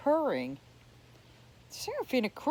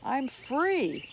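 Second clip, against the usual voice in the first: shouting; 5 semitones higher than usual. A narrator's reading. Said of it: "shouted up at the stars".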